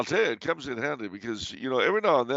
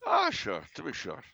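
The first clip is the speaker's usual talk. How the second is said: Irish accent; 4 semitones higher than usual. Shown as a demonstration. Comedian challenged on his Irish impression, playful Irish brogue. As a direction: put on a stock Irish brogue. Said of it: "Do you dare do your Irish".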